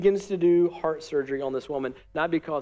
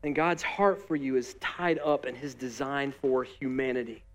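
with love. Real, not acted. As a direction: say it gently with love. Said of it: "hear me say this with love in my voice".

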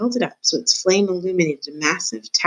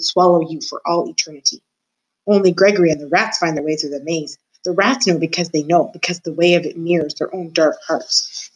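a lightly voiced, gloating old jailer; a hint of a menacing jailer taunting the mouse; creepy old jailer. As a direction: savour every word like a sly old jailer in the dark. Gregory's voice again.

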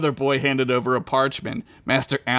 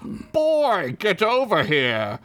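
mock stern master; 8 semitones higher than usual. Stern master orders the boy.

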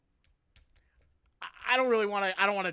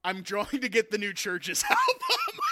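laughing through the quote; 4 semitones higher, 4 dB louder than usual. Retold or imitated. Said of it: "He's like".

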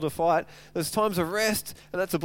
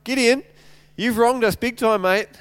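mildly heated, raised-pitch reproach; angry accusation; 4 semitones higher, 5 dB louder than usual. Retold or imitated. Preacher voices Ephraim accusing Gideon, angry accusation. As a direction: call him out, acting affronted. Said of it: "they're angry. They're like".

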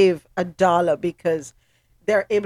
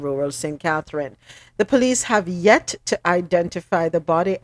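measured radio news bulletin; news read. Acted. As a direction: read the report out to listeners. Reads a news report.

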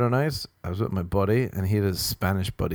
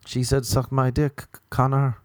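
put-on high, lightly accented friend voice; put-on higher voice, lightly hammed-up; imitated Spanish friend; 5 semitones higher than usual. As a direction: mimic a tickled friend. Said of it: "Anyway, she kept being like".

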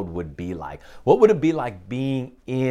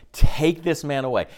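mock crowd shout; 6 semitones higher, 4 dB louder than usual. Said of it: "they're crying out together".

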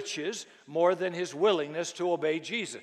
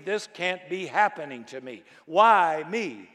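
panicked cry; 4 dB louder than usual. Retold or imitated. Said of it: "you'll be screaming".

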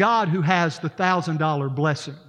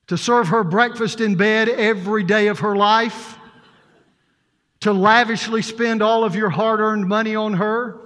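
a touch of mock sternness, slightly raised; stern pastor; 2 semitones higher than usual. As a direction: pastor lays down the vows with mild mock severity. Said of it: "he said in a very stern voice".

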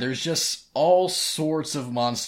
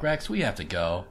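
lower, offhand, like ordering a sandwich; casual flat; 5 semitones lower than usual. Retold or imitated. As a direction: toss it off casually. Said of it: "says everything casually, like she's ordering a sandwich".

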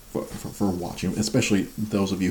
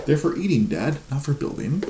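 high-pitched mock toddler telling dad off; scolding toddler; 7 semitones higher than usual. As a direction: play an indignant little kid, pitched well up. Voicing his toddler scolding dad.

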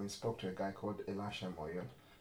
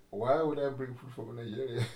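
incredulous; 3 semitones higher, 6 dB louder than usual. Retold or imitated. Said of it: "I was like".

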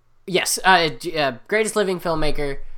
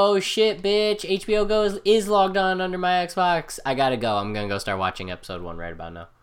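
sarcastic; 4 semitones higher than usual. Acted. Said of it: "That was sarcasm".

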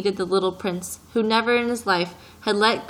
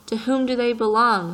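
peevish retort; 3 semitones higher, 4 dB louder than usual. Acted. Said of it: "the businessman retorted peevishly".

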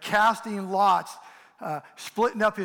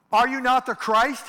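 higher, louder scornful shout; railing insult; 6 semitones higher, 8 dB louder than usual. Retold or imitated. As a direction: hurl it at him in contempt. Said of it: "he railed at Jesus. He hurled insults at him".

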